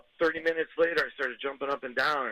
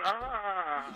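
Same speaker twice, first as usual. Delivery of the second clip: retold long, higher-pitched "aah"; drawn-out "ah"; 6 semitones higher than usual. Caller reenacts pouring milk on the burn, drawn-out higher "aah". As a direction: imitate the long "aah" let out in the bathroom.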